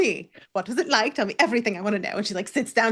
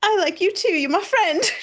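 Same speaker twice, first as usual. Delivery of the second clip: put-on little Victorian orphan child voice; 9 semitones higher, 3 dB louder than usual. Voicing a character who punches a friend, Dickensian child voice. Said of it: "she sounded like a Dickinson child".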